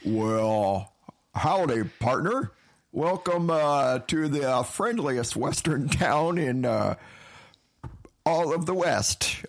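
a light Western drawl, welcoming stranger; friendly frontier host, folksy; cowboy voice. Acted. Improv Western townsman.

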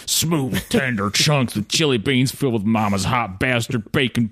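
hammed-up folksy chili ad read; chipper 1950s ad. Shown as a demonstration. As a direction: recite it like an over-the-top ad. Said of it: "it's almost like listening to someone recite poetry".

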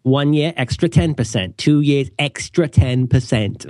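put-on vague, hard-to-place European accent; muddled European accent. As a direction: put on a half-formed European accent, drifting toward Australian. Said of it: "my inchoate European accent has become".

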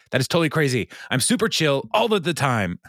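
hammed-up, far-from-chill insistence; unconvincingly chill. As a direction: protest your calm in a voice that climbs. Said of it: "which is the least way to say".

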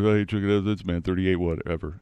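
a hint of a clueless guy; dumb guy voice. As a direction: trail down like a dim fellow reporting. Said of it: "this is my go-to dumb guy".

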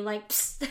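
short hissing psst of an air jet; imitated air squirt. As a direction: mimic a puff of pressurized air. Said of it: "squirting air at you".

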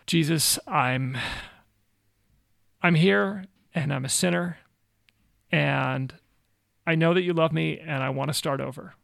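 retold prayer in halting phrases with long pauses; simple prayer. Missionary leading a young man phrase by phrase, simple prayer. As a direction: lead someone gently through a prayer, pausing between phrases. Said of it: "led him through a really simple prayer".

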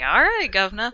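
a light, peppy mock Cockney British accent; stereotypical British accent. Imitating Tracer's stereotypical British accent, peppy and cheery. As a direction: chirp it as an over-the-top British cheery girl. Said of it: "she's like, stereotypically British".

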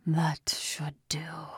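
low, slow, breathy demon voice; a satisfied creature, low and slow; dark demon speaking softly; deep harmonic voice. A narrator's reading. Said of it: "he said in a deep harmonic voice".

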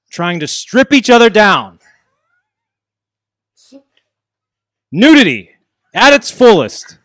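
building cocky heel boasting; wrestling promo. Acted. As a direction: swagger it at the rival. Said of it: "cut a promo on Sorg".

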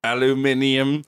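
put-on British accent.

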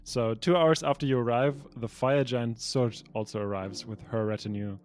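measured, deliberate scene setting; storyteller laying out a grand council; game master narration. Acted. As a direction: read out the scene like a storyteller, pausing between phrases. Reads pre-written scene narration.

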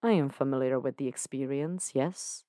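a touch of dryness, understated; dry. Acted. Lucifer answering Dan, mildly dry. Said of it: "Lucifer says dryly".

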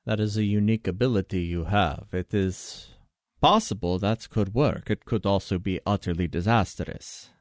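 lightly voiced, deliberate expert advisor; measured expert. Expert answering a party member's spitballed idea, measured. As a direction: weigh it up formally, as a consulted expert.

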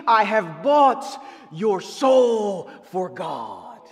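slow shouted quote. Retold or imitated. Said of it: "The bishop said".

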